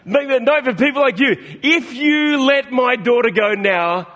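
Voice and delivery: can't keep a straight face; reading while laughing. Retold or imitated. Pastor cracking up reading the film quote, laughing. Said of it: "That's very hard to read back there".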